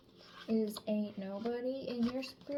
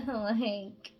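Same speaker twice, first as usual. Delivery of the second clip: laughing; 6 dB louder than usual. Real, not acted. Laughing at own accent attempt.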